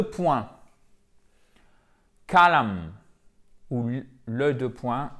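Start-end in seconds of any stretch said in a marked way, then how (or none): 2.3-2.9 "column" as KOH-lun, falling; diphthong O. Shown as a demonstration. Teacher gives the English word for deux points, O diphthong. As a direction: glide the first vowel of "column" into O. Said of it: "C'est un E qui va sur un O".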